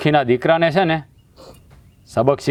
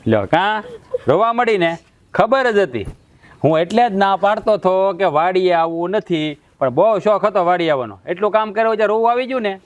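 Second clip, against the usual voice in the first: higher, mocking told-you-so; teasing scold; 5 semitones higher than usual. Brother scolds his crying sister, higher and mocking. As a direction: rub it in that she ignored the warning.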